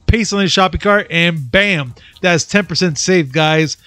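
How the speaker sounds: upbeat promo voice; punchy sponsor pitch; ad read. Acted.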